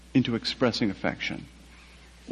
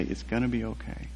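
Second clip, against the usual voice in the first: gentle reassurance; 8 dB quieter than usual. Retold or imitated. Authority figure comforting him, softly reassuring. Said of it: "somebody with authority".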